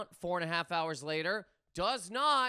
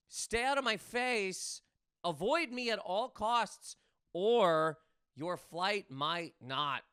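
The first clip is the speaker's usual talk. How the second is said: tough action hero; slower than usual. Retold or imitated. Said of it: "Jason Statham level, the beekeeper".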